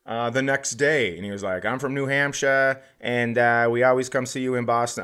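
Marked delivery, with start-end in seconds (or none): 1.7-5.0 lightly put-on Boston accent; quick, rough Boston fan voice. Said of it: "I do a horrible Boston accent".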